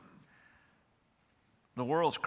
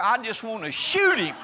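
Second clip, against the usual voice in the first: laughing; 6 semitones higher, 7 dB louder than usual. Real, not acted. Joking rant about dog commercials.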